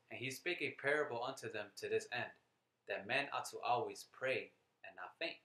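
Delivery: measured, emphatic scripture reading. Acted. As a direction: read the verse out firmly, landing key words. Reads scripture aloud to listeners.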